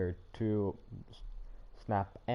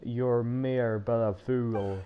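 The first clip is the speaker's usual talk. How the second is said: 1 mock villain taunt; 3 dB louder, much slower than usual. Taunting game villain back.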